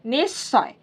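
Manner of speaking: निस्सय said crisply as "nissoy", with a doubled s; model pronunciation. Shown as a demonstration. Teacher answers her own question for learners, careful model word. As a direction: say निस्सय with the s sound, not h. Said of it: "तो इसको हम लोग कैसे पढ़ेंगे?".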